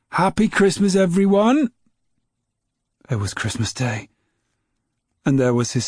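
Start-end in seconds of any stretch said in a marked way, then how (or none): 0.1-1.7 high, loud cheerful call. A narrator's reading. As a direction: call it through the house. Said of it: "Grandma was calling out".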